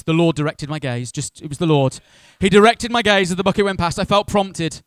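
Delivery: loud, mock-holy insistence; acted pious excuse. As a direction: justify yourself with rising, hammed-up conviction. Acted pious excuse for nosy noticing.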